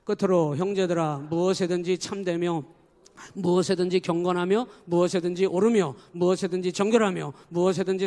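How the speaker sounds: loud, even group recitation; loud unison scripture reading; congregational reading. Shown as a demonstration. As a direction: lead the reading aloud. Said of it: "다 같이 읽습니다".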